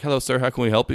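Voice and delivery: lilting customer-service greeting; hotel front desk. Retold or imitated. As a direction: imitate a polite phone operator. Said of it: "and they're like".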